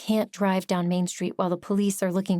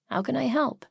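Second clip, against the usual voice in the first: softly; 6 semitones higher than usual. Acted. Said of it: "Rusty asked softly".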